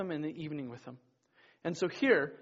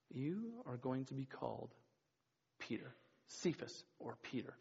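soft voice; 4 semitones lower, 12 dB quieter than usual. Acted. Jesus renaming Simon, voiced softly.

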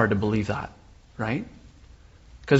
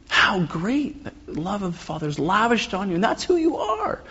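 exclaimed, rising much higher to the end; with an exclamation mark; 7 semitones higher, 5 dB quieter than usual. Shown as a demonstration. Pastor reads Elliot's verse to the congregation, exclaimed. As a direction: read it like a glad exclamation. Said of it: "Read it with an exclamation mark".

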